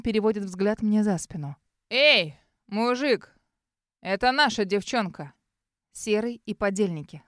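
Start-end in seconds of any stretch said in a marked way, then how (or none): 1.9-5.3 развязный бандит. Acted. Бандит окликает незнакомца.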